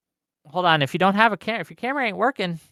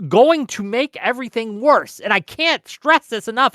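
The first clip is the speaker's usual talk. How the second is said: emotional; 6 semitones higher, 3 dB louder than usual. Real, not acted. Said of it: "I'm getting a little emotional right now".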